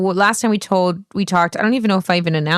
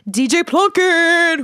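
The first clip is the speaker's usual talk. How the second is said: hyping announcement; 10 semitones higher, 3 dB louder, slower than usual. Real, not acted. Hyping co-host's name.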